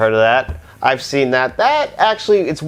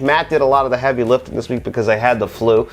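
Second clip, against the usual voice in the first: a little raspy from the flu; hoarse, still getting over the flu. Real, not acted. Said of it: "That's why my voice sounds a little raspy".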